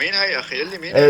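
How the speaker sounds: insistent demand. Real, not acted. Brother insists on knowing.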